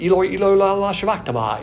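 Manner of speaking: half-hearted retold scream. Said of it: "we know what he screamed".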